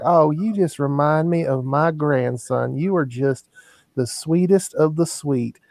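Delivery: lightly voiced doting granny; grandmotherly old lady. Old lady praising the bag boy, lightly voiced grandmotherly sweetness. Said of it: "this is just like the grandmotherly".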